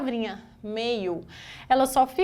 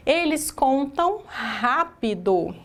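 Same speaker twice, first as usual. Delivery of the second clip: "eles contam rápido" spoken slowly, word by word, for the class to copy; slow dictation; 3 semitones higher, much slower than usual. Shown as a demonstration. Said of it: "teacher dictates the example sentence".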